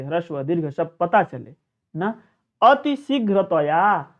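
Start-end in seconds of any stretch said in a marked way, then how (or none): 2.6-4.1 very slow, every syllable drawn out; slow deliberate reading; slow recitation. Shown as a demonstration. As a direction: spell the word out at half speed. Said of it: "उस तरीके से उसी स्वर में उसको लेकर के पढ़ना चाहिए".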